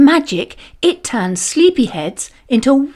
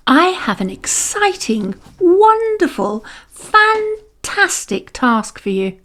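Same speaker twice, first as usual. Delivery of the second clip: overexcited teacher; 8 semitones higher than usual. A narrator's reading. Teacher hyping class.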